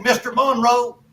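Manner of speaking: lightly put-on Kentucky twang, drawn out; a hint of a hill-country accent, slow; mild Southern twang imitation. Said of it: "Johnny put on that accent".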